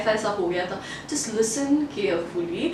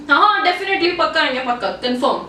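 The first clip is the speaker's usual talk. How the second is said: higher, emphatic acceptance, settling at the end; overeager assurance; 3 semitones higher than usual. Acted. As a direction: promise readily to get rid of the host. Acting a hasty yes to invitation.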